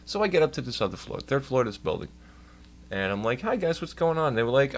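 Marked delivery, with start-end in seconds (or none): 3.4-4.4 high-pitched breezy hello; imitated friendly greeting. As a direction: greet the office casually, pitched up. Acts out greeting the office staff.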